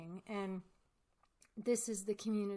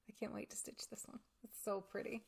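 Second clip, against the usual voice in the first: eager whisper; 3 dB quieter than usual. Real, not acted. Excited about new pattern.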